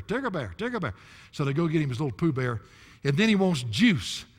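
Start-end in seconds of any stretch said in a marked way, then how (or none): 0.0-0.9 put-on toddler voice. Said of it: "why he calls him Tigger Bear".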